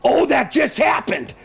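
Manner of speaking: high, stunned laughing disbelief; can't believe it, burst out laughing; shocked laughter. Real, not acted. Shocked by sudden win.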